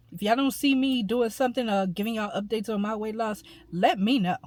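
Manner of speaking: talking while chewing gum; smacking gum between words. Real, not acted. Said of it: "I need to stop smacking on this gum".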